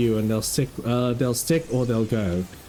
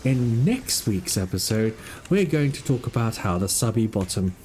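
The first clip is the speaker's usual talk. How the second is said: slow, hushed wildlife narrator; nature documentary. Acted.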